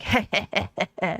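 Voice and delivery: imitated smug chuckle. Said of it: "shrugged and was just like".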